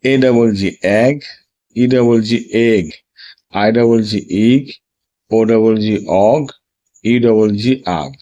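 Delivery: careful teaching drill; spelling drill. Shown as a demonstration. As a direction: spell the letters, then say the sound. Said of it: "উচ্চারণগুলো দেখেছো?". (বানান করে উচ্চারণ)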